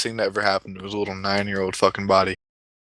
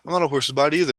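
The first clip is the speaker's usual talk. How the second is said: put-on high kid voice, quick and giggly; mock a child's amused denial; Billy; 7 semitones higher, faster than usual. Boy denying the clown's silly question, amused. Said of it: "And Billy's like".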